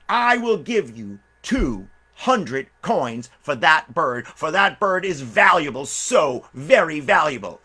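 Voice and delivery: grand offer. Acted. Buyer makes big offer.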